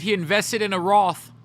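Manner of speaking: playfully posh boast; lightly voiced rich gossip; mock rich guy. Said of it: "I would fit in with the rich".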